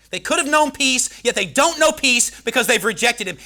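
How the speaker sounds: normal talking voice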